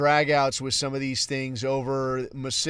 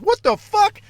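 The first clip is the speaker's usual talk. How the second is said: shrieking in disbelief, much higher and louder; outraged shriek; 9 dB louder than usual. Retold or imitated. A user stunned that the AI refused him, shrieking outraged. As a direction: screech it like you can't believe the nerve.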